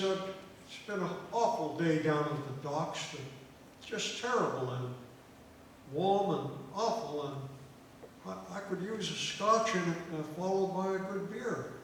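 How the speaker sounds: loud Irish barroom voice; Irish brogue. Acted. Weary docker ordering at the bar, Irish brogue. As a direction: put on a hearty Irish brogue. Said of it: "Is that a sign of the brogue".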